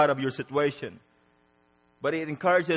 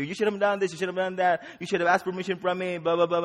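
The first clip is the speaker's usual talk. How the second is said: lightly voiced scolding parent, higher and quick; lecturing parent; 5 semitones higher, faster than usual. Parent scolding a child in timeout, mock lecture. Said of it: "lecturing you and lecturing you".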